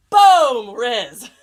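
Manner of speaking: loud punchy "Boom"; big excited exclamation; triumphant shout. Real, not acted. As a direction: shout it like a win. Cheering viewer's comment.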